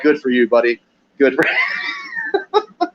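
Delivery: dragged-out, laughing squeal; mock congratulations. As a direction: fake cheering for the kid, breaking into laughter.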